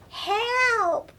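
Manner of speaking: high, frightened cry for help; terrified girl crying out; yelled. Acted. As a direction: scream for help in a little girl's voice. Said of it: "Lily yelled".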